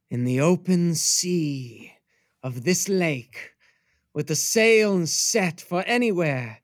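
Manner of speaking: slow, dreamy verse reading; poetic recitation. Acted. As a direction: recite it like a grand poem. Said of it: "so I'm losing my meter".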